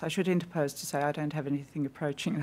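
ordinary talk

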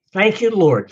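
praying bear. Retold or imitated. Bear about to eat the man, mock prayer. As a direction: say grace as the bear, for the punchline. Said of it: "And the bear says".

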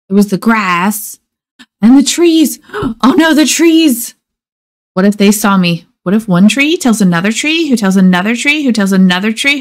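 quick, gasping guilty worry; mild panic. Acted. Guilty boy fearing the trees will tell, mild panic. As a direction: spiral into worry, a touch breathless. Norman panics about being seen.

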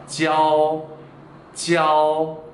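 "지아오" held on a level tone; teacher's clear model of level-tone "지아오"; Mandarin word demo. Shown as a demonstration. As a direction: draw out "지아오" steadily without dropping. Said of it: "예를 들어서 지아오".

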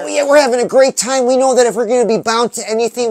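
fast, loud, high enthusiasm; hyped and fast. Real, not acted. Host revving up viewers, fast and excited. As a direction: rush it out with energy.

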